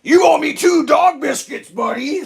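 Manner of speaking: loud, high, drawn-out put-on demand; hammed-up playful shakedown; mock demand. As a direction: demand repayment jokingly, ending near laughter. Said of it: "someone's gonna demand something".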